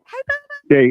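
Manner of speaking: high, loud hail to a returning friend; real high-pitched shouted greeting; calling out greeting. Real, not acted. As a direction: holler hello to someone just back.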